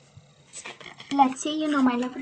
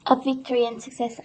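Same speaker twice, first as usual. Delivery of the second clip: hoarse voice; 4 dB louder than usual. Real, not acted. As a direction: voice going, slightly rough. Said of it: "I'm really losing my voice this morning".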